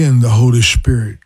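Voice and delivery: ordinary delivery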